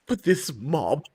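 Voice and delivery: slow, near-whispered dismay; breath-only incredulity; appalled disbelief. Retold or imitated. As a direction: let it sink to a slow, hushed murmur. Appalled end of retold question.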